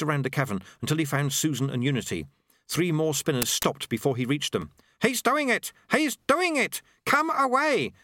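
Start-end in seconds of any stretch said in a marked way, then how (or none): 5.0-7.9 high-pitched shouted warning; urgent shout. A narrator's reading. Sweeper warning the others as spinners stop, urgent high shout. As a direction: call out in alarm, pitched far up. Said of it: "he shouted".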